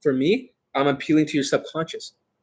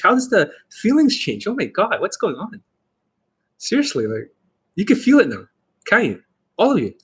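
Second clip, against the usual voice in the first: higher, swooping teasing tone; changed teasing tonality; 6 semitones higher than usual. Shown as a demonstration. Dating coach shows viewers his tonality change, teasing. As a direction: play up the tease with lifted pitch. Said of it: "how does the tonality change".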